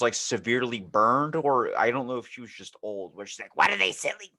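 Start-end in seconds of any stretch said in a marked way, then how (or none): 3.6-4.3 put-on old SpongeBob lady. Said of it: "the one from SpongeBob".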